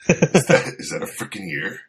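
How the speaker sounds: high-pitched, stammering comic shock; mock horrified disbelief. Co-host voicing the passenger spotting an ear, mock disbelief. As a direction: start high and loud, aghast, then drop.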